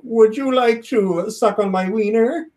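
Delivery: slow, awkward creepy pickup line; neckbeard voice. Acted. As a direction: play a cringey neckbeard, drawn out. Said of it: "I'll start talking like a neckbeard".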